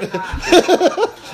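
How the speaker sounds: bursts out in a high laugh; cracks up at his own joke. Real, not acted. Comic laughing at his own Bronx joke, high burst.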